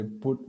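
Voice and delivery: "put" with a rounded oo, as in "foot"; short oo vowel. Shown as a demonstration. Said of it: "P U T is put".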